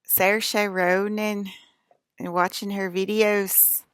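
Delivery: Irish accent. Shown as a demonstration. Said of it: "trying to be Irish".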